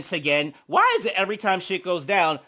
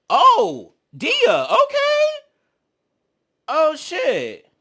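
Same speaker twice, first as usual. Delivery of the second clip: high surprised exclamation; 11 semitones higher, 6 dB louder, much slower than usual. Real, not acted. Watching the fight, caught off guard, high surprise. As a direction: react with sudden surprise at the clip.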